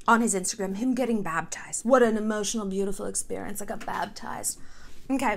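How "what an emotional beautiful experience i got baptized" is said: softening into a breathy hush; mock gushing. Quoting his baptism post in mock gushing tone, fading to a whisper. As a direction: gush then trail off to nothing.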